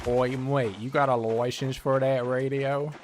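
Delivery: Oi mate, as a British TV licence man in a put-on British accent; mock British accent. Challenging the player about the radio in a mock British accent. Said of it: "I sound more like frickin', uh, Australian".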